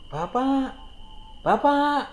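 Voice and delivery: put-on high child's voice calling out; calling father from far away. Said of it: "suara anaknya yang memanggil".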